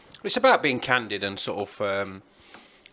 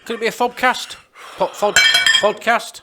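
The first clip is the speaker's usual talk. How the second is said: high, louder joking question; playful high; 13 semitones higher, 11 dB louder than usual. Real, not acted. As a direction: tease the silly word. Joking about the word fobcast.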